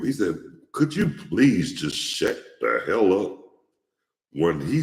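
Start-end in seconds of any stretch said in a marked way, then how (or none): 0.7-3.4 mock exasperated request, emphatic on each word; imitating a fed-up debater telling someone off; straightforward retort, imitated. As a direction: retell a blunt, open put-down. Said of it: "he wasn't trying to say it under his breath".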